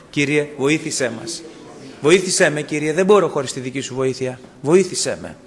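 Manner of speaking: prayer with a lift on βοήθησέ; pleading prayer. Shown as a demonstration. Preacher leads the congregation in prayer, mildly pleading. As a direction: pray it aloud, urging Βοήθησέ με. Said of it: "Να το πούμε αυτό".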